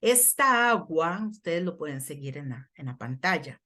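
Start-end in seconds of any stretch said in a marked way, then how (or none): 0.0-1.3 measured scripture reading with a firm start; slow reading. Real, not acted. Preacher opens the Ezekiel passage for the congregation, reading slowly. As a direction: read it out deliberately, word by word. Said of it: "Lo voy a leer despacio".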